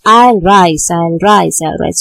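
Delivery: "I'll rise" with a firm beat on both words, easing off; strong, even beats on "I'll rise", fading by the third; both words stressed. Shown as a demonstration. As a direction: hit both "I'll" and "rise", loudest first time. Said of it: "here it becomes stressed and stressed".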